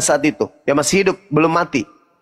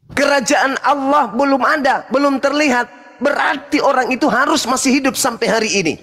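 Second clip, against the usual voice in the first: gloating; 6 semitones higher than usual. Real, not acted. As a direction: press the winning point gleefully. Gloating conclusion in debate.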